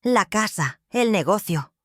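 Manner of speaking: más agudo y altanero, cada sílaba recalcada; arrogante, subiendo de tono. Acted. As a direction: presume con desprecio. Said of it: "Su voz subió de tono, la arrogancia goteando". (hijo que se jacta ante su madre, arrogante)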